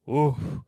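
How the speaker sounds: a lone heckler's woof; mock crowd woof. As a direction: groan it like one unimpressed punter. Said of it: "all I got was a woof".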